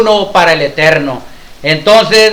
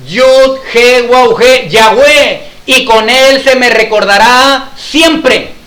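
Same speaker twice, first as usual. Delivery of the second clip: solemn scripture quotation; 3 semitones higher, slower than usual. Acted. God declares his name to Moisés, solemn and slow. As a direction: proclaim each phrase slowly and deliberately. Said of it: "en el siguiente versículo le dice".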